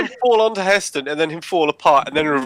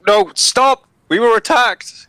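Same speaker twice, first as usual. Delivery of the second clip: high, urgent acted call; urgent shout; 9 semitones higher, 4 dB louder, slower than usual. Player pleading with the guards, urgent shout. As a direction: call out in protest to stop them. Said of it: "shout to the guards and be like".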